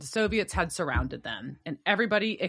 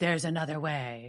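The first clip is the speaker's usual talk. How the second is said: soft, hushed half-whisper under the breath; 2 semitones lower, 3 dB quieter than usual. Retelling a movie scene where the Commandant stops someone: imitating a half-whisper.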